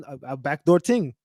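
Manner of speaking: lightly imitated Jamaican accent, "ting"; mock Jamaican accent. Streamer parroting the clip's backdoor line, mock Jamaican. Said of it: "developed this damn Jamaican accent".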